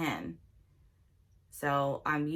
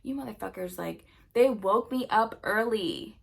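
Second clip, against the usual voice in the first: worked-up rant, climbing higher and louder; seething; 4 semitones higher, 5 dB louder than usual. Retold or imitated. Venting about being woken early, seething and increasingly loud. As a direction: build from muttered cursing to loud, high outrage. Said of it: "like, seething".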